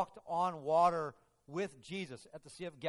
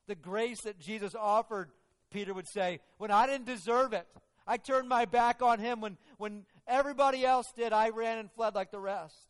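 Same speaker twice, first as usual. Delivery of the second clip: higher, louder passionate testimony; fervent testimony; 7 semitones higher, 9 dB louder than usual. Acted. Peter testifying about grace, fervent and loud. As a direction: build the fervour as you confess.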